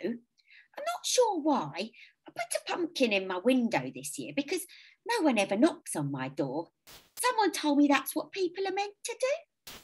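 put-on high gentle elderly voice; lonely sweet old lady. A narrator's reading.

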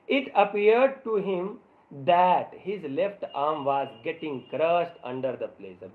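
slow, word-by-word reading aloud; slow story reading. A narrator's reading. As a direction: read each English word out carefully for the class. Reads English story text slowly. (धीरे-धीरे, एक-एक शब्द पढ़ते हुए कहानी)

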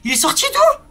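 high shrill panicked question; panicked squeak. Real, not acted. Scared gamer asks where the monster came from, panicked. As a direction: squeal it in shock.

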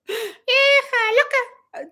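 slow, high, drawn-out "Vieja loca"; drawn-out mock insult. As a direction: stretch it out mockingly, very slow. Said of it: "Y le colgaba". ("Vieja loca" lento y burlón)

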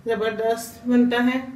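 usual speaking voice

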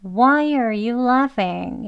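Why said very slowly with a full "are"; with the er sound. Shown as a demonstration. Teacher models the full er sound, very slowly. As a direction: drawl it out, keeping the r in are. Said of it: "그냥 er 하는 소리를 넣어서".

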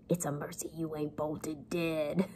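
soft voice dissolving into giggles; laughing through the quote. Acted. Teacher finds Joe's line funny, softly laughing. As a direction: quote it while cracking up. Breaks into laughter acting Joe.

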